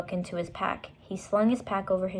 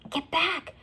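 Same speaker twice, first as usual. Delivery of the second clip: urgent; 10 semitones higher than usual. Acted. Jack urging again.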